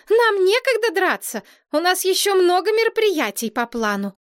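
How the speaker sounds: high, bossy scolding; indignant princess. A narrator's reading. Princess scolds boys about her plans, high and bossy. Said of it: "возмутилась принцесса".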